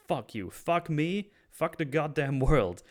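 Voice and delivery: acted fury, slow, high and emphatic; angry outburst. Oz curses Vic and the world, angry. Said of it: "I like how angry Oz is here".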